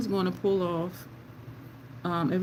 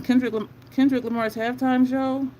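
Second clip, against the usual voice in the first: ordinary talk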